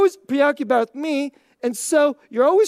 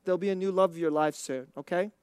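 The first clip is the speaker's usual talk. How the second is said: gentle teasing friend; 5 semitones lower, 3 dB quieter than usual. Retold or imitated. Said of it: "like, gently say".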